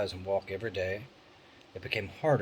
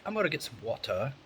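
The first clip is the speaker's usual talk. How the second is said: put-on son's British accent; 4 semitones higher, 4 dB louder than usual. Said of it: "He's like".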